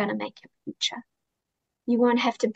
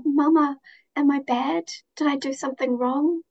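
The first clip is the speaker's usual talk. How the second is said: lightly voiced child, slightly raised; young daughter's worried questions; 3 semitones higher than usual. Daughter asking her mama if she is bad, lightly imitated child. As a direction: quote a little girl's anxious questions, lightly imitated. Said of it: "she has these moments".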